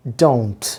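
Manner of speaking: "Don't" as one syllable with an O glide; careful pronunciation. Shown as a demonstration. Teacher shows learners the contracted form, careful pronunciation. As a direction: say "Don't" clearly, falling at the end. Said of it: "প্রোনাউন্সিয়েশনটার দিকে খেয়াল রাখেন".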